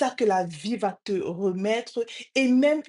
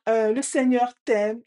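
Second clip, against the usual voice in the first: louder, lifted declaration; father's call; 3 semitones higher, 5 dB louder than usual. Retold or imitated. Father calls a blessing to the echo, louder. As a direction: send it out firmly to the echo. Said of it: "Et il dit".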